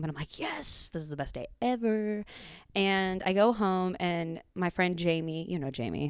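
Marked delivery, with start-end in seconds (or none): 0.4-2.2 high, gleeful squeal of joy; giddy teen relief; excited. Retold or imitated. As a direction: celebrate like it's the best day ever. Overjoyed at skipping school.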